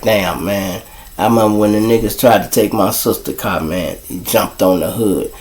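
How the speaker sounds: low, soft inner monologue; muted recollection. Retold or imitated. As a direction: think aloud, dropping pitch and volume. Voices the carjacker's sudden flashback.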